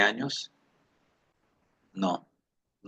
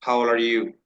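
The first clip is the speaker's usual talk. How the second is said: quick smooth question. Shown as a demonstration. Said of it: "bien gomeleadita".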